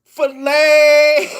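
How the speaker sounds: shouted name through laughter; laughing shout. Real, not acted. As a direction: shout it while cracking up.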